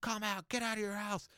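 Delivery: strained, high holler held back in volume; retold screaming. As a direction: imitate an enraged man yelling at a front door. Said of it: "screaming and yelling".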